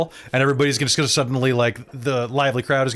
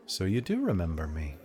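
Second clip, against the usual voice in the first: low haunting voice; 5 semitones lower, 8 dB quieter than usual. Acted. NPC Mira speaks to Talfrin.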